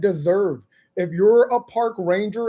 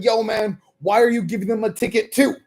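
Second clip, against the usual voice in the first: indignant protest; 2 semitones higher, 3 dB louder than usual. Retold or imitated. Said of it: "And I was like".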